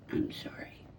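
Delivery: soft whispered apology to a kitten; hushed comforting sorry. Real, not acted. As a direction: whisper it gently to the cat. Soothing the kitten softly.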